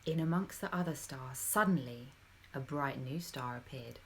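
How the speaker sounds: expressive storytelling voice; reading to children. A narrator's reading. Narrator telling children the Christmas story, expressive. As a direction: tell it like a bedtime story.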